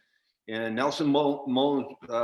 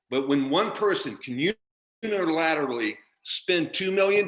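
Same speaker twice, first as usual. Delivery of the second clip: real upset anger; 3 semitones higher than usual. Real, not acted. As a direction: demand answers from the president, voice climbing. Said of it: "I'm sorry I'm so upset".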